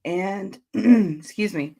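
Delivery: throat clearing, slow and husky; words through a frog in the throat. Real, not acted. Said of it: "I'm getting a little frog in my throat".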